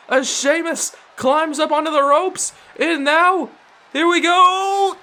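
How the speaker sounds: fast, rising wrestling commentary; live play-by-play. Acted. Commentator calling the tag match for viewers, live play-by-play. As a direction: call every move as it happens.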